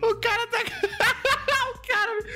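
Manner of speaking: high squealing laughter through the words; cracking up, barely getting words out; high giggling fit; laughing hard. Real, not acted. Cracking up at the character's head.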